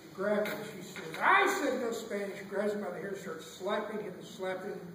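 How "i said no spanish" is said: mild mock yell, punched at the start; mock screaming teacher. Teacher grabbing boy, mock yell. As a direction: scold like a teacher at the end of her patience. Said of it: "she starts screaming".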